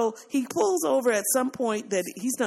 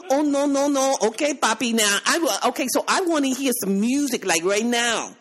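louder, higher sassy mock queen voice; imitating drunk queen; 3 semitones higher, 5 dB louder than usual. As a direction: camp it up like a tipsy club queen. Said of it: "it's like".

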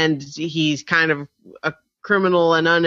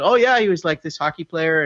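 put-on Canadian accent. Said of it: "I'm kinda doing the Canadian accent".

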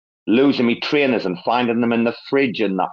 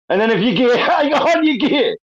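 imitated little rapper; 13 semitones higher, 3 dB louder than usual. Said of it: "the little, little gangster rapper dude".

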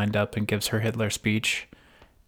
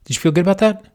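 higher and louder, pressing; mock accusing question; 9 semitones higher, 7 dB louder, much faster than usual. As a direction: push the accusation up high and loud. Jon presses Dany.

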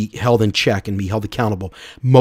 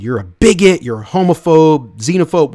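imitated critics flinging labels, higher and louder; a raised, hammed-up accusing voice; mock accusing yell; 5 semitones higher, 5 dB louder than usual. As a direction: throw each label like an accusation, half-acted. Imagined critics hurling labels.

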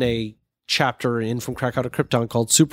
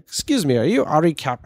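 higher-pitched, badly faked British accent; terrible British accent; 4 semitones higher than usual. Old British man approaching a guest speaker, in a bad British accent. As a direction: attempt a hammy British accent. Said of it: "I'm gonna do a terrible British accent".

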